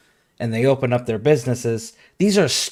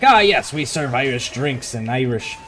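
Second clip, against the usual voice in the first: pompous pub owner. Retold or imitated. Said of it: "they're like".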